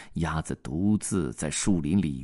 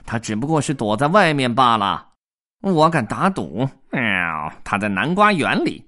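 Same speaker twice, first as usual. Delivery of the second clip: sneering cat; 5 semitones higher, 6 dB louder than usual. Acted. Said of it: "猫带着嘲笑的口吻说".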